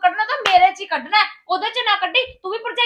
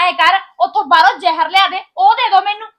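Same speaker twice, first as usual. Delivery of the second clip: louder, bitter demand thrown at him; angry outburst; 5 dB louder than usual. Acted. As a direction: hurl it at him in a fit of anger. Quarrel with husband over sister-in-law.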